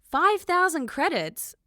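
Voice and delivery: high, loud, slow outburst; stunned cry of outrage; shocked shout. Acted. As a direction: shout it in disbelief. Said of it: "Sarah shouted".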